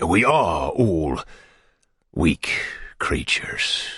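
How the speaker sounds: very slow, fading to a whisper; slow wooing whisper. Acted. Beadle courting the matron, slow and whispered. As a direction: draw it out, ending in a breath.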